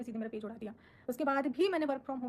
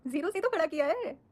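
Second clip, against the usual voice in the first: laughing defiance; 4 semitones higher, 7 dB louder than usual. Real, not acted. Defiant reply to critics.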